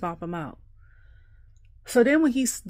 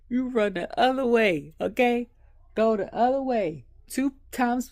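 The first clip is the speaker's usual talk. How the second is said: higher and louder, emphatic advice; excited warning; 7 semitones higher, 8 dB louder than usual. Real, not acted. Vlogger warning her viewers to run, excited and loud. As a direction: warn them urgently, half laughing.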